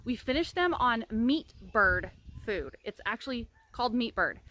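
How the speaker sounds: talking through a retainer; slightly lisped retainer speech; wearing a retainer. Real, not acted. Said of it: "I'm not gonna be wearing this retainer anymore".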